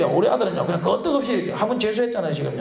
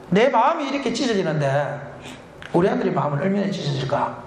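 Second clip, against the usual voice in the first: ordinary delivery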